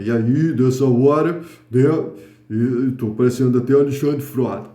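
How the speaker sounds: a hint of a gruff macho tough-guy voice; deep thick voice. Shown as a demonstration. Teacher shows students a thicker voice, lightly gruff. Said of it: "posso falar com a voz mais grossa".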